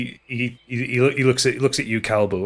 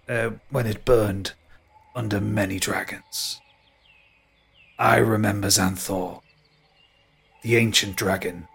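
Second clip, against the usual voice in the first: ancient tree. Acted. Tree tells ancient memories.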